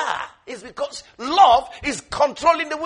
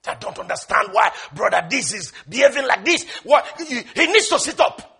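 acted exasperation, building at the end; impatient complaint; 3 dB louder than usual. Believer griping about a brother's behaviour, acted impatience. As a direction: grumble impatiently, rising in pitch toward the close. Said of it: "so impatient with people".

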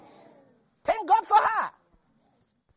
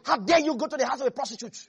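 mock critics; much faster than usual. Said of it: "some people would have criticized".

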